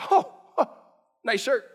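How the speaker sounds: high, loud "oh, oh" of fake admiration; hammed-up sarcastic compliment. Shown as a demonstration. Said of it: "sarcasm be like".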